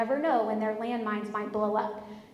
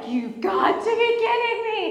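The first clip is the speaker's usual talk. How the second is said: high, loud incredulous outburst; losing it; 10 semitones higher, 7 dB louder than usual. Retold or imitated. Wife hears he bought all new furniture, retold furious disbelief. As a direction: explode in hammed-up disbelief. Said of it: "And I lost it".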